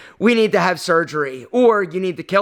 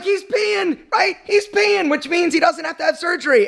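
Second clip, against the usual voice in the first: much higher, thrilled burst of relief; much higher voice, overjoyed the cat finally peed; excited relief; 9 semitones higher than usual. Retold or imitated. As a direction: announce it high and overjoyed.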